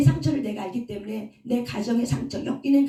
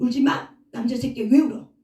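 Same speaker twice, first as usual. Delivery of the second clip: put-on harsh, scolding parent voice; 4 dB louder than usual. Retelling how a crying child was scolded: imitating a scolding parent. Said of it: "그래서 눈물 흘리면 더 혼나".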